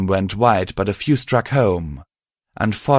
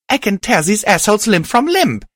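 much higher, louder furious snarl; 13 semitones higher, 5 dB louder than usual. Acted. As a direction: snarl with vengeful rage. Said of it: "I snarled".

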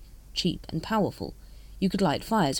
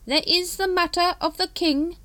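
smooth; 13 semitones higher, 4 dB louder than usual. A narrator's reading. Supreme Grand Master reassuring the brethren, smooth. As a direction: draw it out smoothly, pitched up. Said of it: "Supreme Grand Master continued".

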